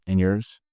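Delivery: short question kept low; going down. Shown as a demonstration. Trainer modelling the boss's question, pitch going down. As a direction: keep YOURS low, like the boss. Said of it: "Going down".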